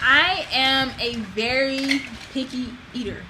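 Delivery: picky said slowly and pushed hard, the rest of the line slow too; stress on picky. Shown as a demonstration. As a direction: lean on the word picky, slow it right down. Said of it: "extra, extra emphasis on the word picky".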